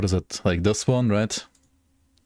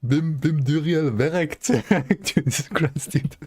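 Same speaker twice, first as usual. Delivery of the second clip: laughing; 7 semitones higher than usual. Real, not acted. Repeating the funny video line.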